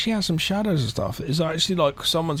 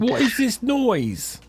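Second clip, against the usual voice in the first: put-on high, very slow British accent; mock British accent; 8 semitones higher, much slower than usual. Co-host copying host's British girl line, mock British accent. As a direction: echo the put-on British voice, stretched out. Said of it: "That's my British accent".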